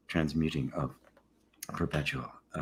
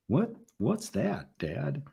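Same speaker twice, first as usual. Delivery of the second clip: put-on child asking; 7 semitones higher, 5 dB quieter, much slower than usual. Child asking about the term.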